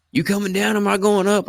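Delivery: high-pitched mock call; imitated calling out. Friend coming back up the hill asks the plan, high mock call.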